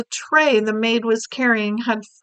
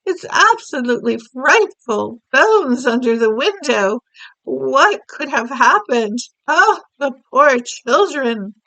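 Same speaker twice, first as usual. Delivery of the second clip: horrified Queen; 4 semitones higher, 5 dB louder than usual. Acted. Queen horrified reading news.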